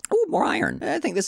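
delighted high ooh; excited. Real, not acted. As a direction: squeal with delight. Excited find of ore.

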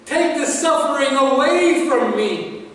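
preacher voicing an anguished prayer; pleading prayer. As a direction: call up to God in retold prayer. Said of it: "praying to God the Father and saying".

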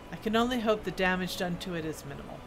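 lightly voiced dwarf smith, storytelling; dwarf smith character. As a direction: read it as an earnest old-world craftsman.

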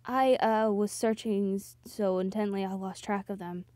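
low, hesitant admission; uncomfortable. Acted. Soji admitting he lost the others, mildly uncomfortable. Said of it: "scratching his head uncomfortably".

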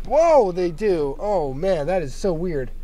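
slow, drawn-out amazed whoa; surprised. Real, not acted. Seats slide, surprised.

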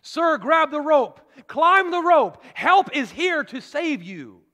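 loud, slow rescue call from above; loudspeaker shout. Retold or imitated. Helicopter crew shouting down to the man on his rooftop, loud and slow. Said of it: "They shouted with a loudspeaker".

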